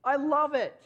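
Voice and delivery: put-on high, loud gushing praise for a child's drawing; dad gushing over his daughter's picture; delighted praise. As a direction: rave about it like a proud dad. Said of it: "I said".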